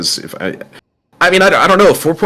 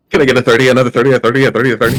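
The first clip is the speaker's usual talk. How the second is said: auctioneer; 3 semitones higher, 3 dB louder, much faster than usual. Pretend. Mock auction call.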